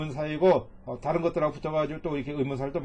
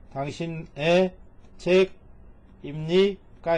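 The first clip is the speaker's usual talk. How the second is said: slow reading; much slower than usual. Shown as a demonstration. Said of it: "이렇게 가면 되겠죠".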